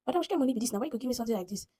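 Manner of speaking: retold protest. Driver questions passenger's odd payment, mildly indignant.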